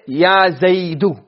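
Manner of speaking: slow, drawn-out call of "Ya Zaidu"; calling someone. Shown as a demonstration. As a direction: call out to Zaid to get his attention. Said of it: "If I say".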